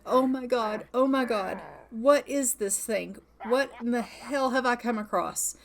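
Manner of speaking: acted fright at a creature; terrified. Woman who has run off from a wolf, mildly terrified. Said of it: "and she's terrified".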